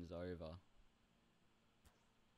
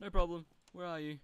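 much louder and higher, almost shouted; loud reply; 10 semitones higher, 11 dB louder than usual. Real, not acted. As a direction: blurt it out big. Answers an apology.

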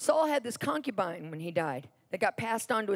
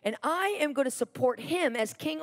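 mildly acted anger; 4 semitones higher than usual. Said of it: "He gets so mad".

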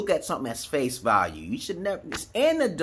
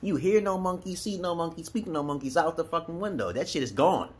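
mock scolding; 6 semitones higher than usual. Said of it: "I'm like".

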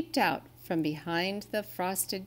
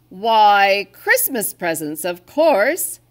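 much louder, cheery matter-of-fact answer; jolly Santa; 12 dB louder, slower than usual. Acted. Santa answers the littlest reindeer, loud cheery surprise. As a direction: tell it as if it's obvious, beaming.

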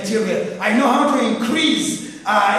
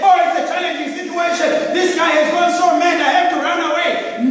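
mock panicked nurse; 5 semitones higher, faster than usual. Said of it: "You cannot as a nurse say".

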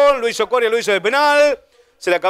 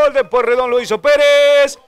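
excited goal announcement; 4 semitones higher than usual. Real, not acted. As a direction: announce the scorer with joy. Goal announced after celebration.

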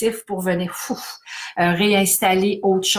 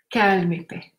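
calm phrase; slower than usual. Shown as a demonstration. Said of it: "alternance violence, calme et paix".

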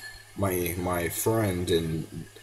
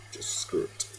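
whispered give-up; 8 dB quieter than usual. Real, not acted. Giving up.

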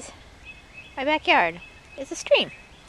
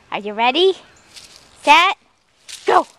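louder, eager rising question; excited build-up; 5 dB louder than usual. Real, not acted. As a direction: pump the dog up. Winding the dog up before throw.

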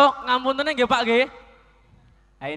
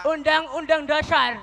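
imitating the teacher's expression; 2 semitones higher than usual. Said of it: "Seperti ini".

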